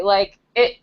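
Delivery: flustered, halting false starts with a laugh; gushing, searching for the words; stumbling, gushy. Real, not acted. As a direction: trip over your words and laugh at yourself. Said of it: "all stumbling over my words now".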